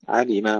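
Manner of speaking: علم with a light, thin final ma; careful علم, ميم unthickened; light mim. Shown as a demonstration. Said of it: "ترقيق الميم".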